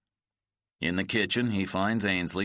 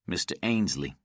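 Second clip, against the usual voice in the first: calmly. Acted. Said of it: "he says calmly".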